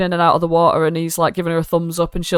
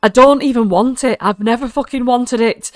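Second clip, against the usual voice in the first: raised, exasperated quarrel voice; acted angry retort; 5 semitones higher, 3 dB louder than usual. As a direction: argue back, pitched up. Character arguing back in quarrel.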